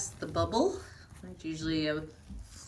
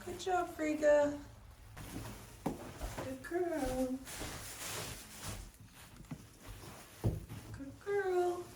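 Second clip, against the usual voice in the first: encouraging; 4 semitones higher, 4 dB quieter than usual. Real, not acted. Cheering animal on while birthing.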